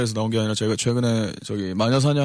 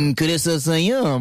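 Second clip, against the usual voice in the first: drawn-out, higher cutesy voice; aegyo; 5 semitones higher, slower than usual. Shown as a demonstration. Guest shows host how he acts cute, aegyo. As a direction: put on slow, exaggerated baby-cute charm. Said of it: "애교 어떻게 해".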